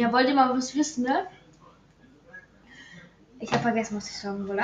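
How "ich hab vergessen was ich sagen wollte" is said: fading into a mumble; trailing off. Real, not acted. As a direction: voice trails away, forgetting. Forgets what he meant to say.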